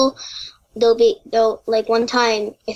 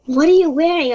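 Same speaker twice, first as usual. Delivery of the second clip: higher, puzzled quote of a friend; surprised retold question; 5 semitones higher, 3 dB louder than usual. School friend spotting the implants, mildly surprised. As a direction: imitate a taken-aback friend.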